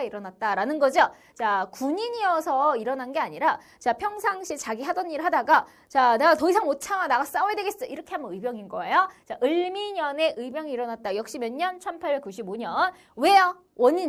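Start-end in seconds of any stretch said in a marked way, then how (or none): 5.9-7.9 imitated indignant resolve; acted fighting resolve. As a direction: act out an ordinary person who has had enough. Acting commoner resolving to take up arms.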